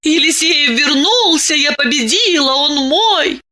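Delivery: выше, с торжеством; порадуйся победе; торжествующе. A narrator's reading. Внутренний торжествующий голос Дианы. (Диана торжествует)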